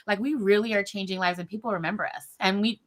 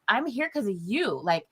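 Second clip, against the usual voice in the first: heartfelt thanks. Retold or imitated. Thanking the nurse who helped.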